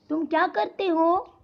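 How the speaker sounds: inquiring lilt through "करते हो"; questioning tune. Shown as a demonstration. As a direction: question rising towards "हो". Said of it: "तो ये भी प्रश्नार्थ चिन्ह".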